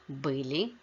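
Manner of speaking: были stressed on the first syllable, БЫли; stress on stem. Shown as a demonstration. Teacher models plural past of быть, stress on stem. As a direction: hit БЫ and let the ending of были go light. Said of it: "on the stem in all other forms".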